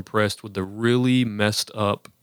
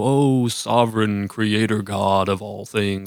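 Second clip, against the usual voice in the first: preachy prayer; slower than usual. Retold or imitated. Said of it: "real easy to be like".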